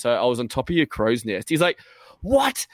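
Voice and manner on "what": high-pitched shocked yelp; mock freak-out. Robbed player learning of the stowaway, freaking out. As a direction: imitate someone jolted by startling news. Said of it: "starts freaking out".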